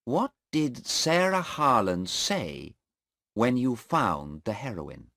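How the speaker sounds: probing a witness in court; lawyer questioning. Acted. Mister Cheng questioning the airport policeman, probing.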